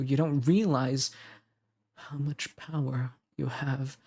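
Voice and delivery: earnest romantic audio-drama delivery; tender, insistent devotion; devoted partner. Acted. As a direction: reassure a doubting lover, with lingering pauses. Records devoted partner's lines.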